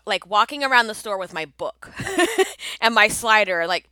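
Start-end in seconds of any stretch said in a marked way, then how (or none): 2.0-2.8 quick high laugh; a burst of amused laughter; short laugh. Real, not acted. Laughing at remembering the book.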